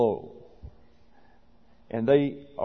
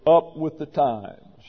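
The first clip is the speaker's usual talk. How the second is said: sarcastic quote; 2 semitones higher, 3 dB louder, slower than usual. Retold or imitated.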